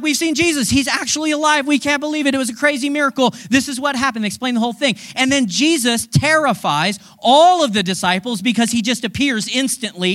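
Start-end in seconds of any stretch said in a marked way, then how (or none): 0.0-4.2 excited report. Retold or imitated. Disciples burst in with news.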